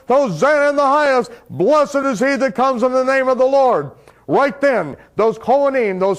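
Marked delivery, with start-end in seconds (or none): 0.1-3.9 high, raised crowd cry; crying at the top of the voice. Retold or imitated. The crowd of Jerusalem hailing him, a high raised cry. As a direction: lift it like a hundred thousand voices. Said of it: "crying to the top of their voice".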